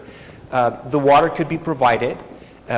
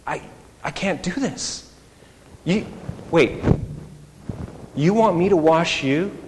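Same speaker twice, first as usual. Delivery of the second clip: flustered protest; 3 semitones higher than usual. Retold or imitated. John the Baptist protesting to Jesus.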